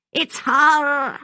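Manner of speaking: high-pitched, loud accusation; accusing old woman. A narrator's reading. Maggie points at Constance, accusing in high voice. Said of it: "Maggie told him, pointing a finger".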